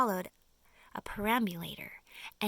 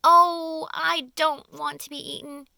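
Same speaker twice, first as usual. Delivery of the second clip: high, loud frightened wail; a worm wailing about being eaten; 6 semitones higher, 11 dB louder than usual. Acted. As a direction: wail it out in terror. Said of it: "wailed the earthworm".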